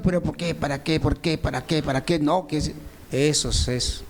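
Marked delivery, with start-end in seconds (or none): 0.0-2.2 lightly mimicked whining why, why; a hint of a grumbling believer sulking at home; mock complaining. Preacher imitating a sulking believer at home, mild mock whine.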